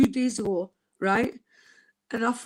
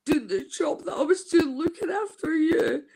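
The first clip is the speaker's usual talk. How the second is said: tearful; 3 semitones higher than usual. Real, not acted. Quoting nurse, crying.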